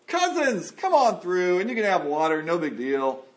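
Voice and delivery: acted-out breezy hospitality; imagined welcome. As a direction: welcome long-lost family with open arms. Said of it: "the Edomites are gonna be like".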